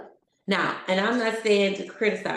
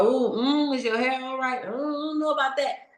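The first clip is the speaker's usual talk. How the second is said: doubtful inner critic; 4 semitones higher than usual. Retold or imitated.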